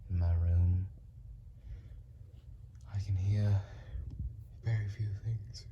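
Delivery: hushed, spaced-out whisper. Shown as a demonstration. Hushed listening in room.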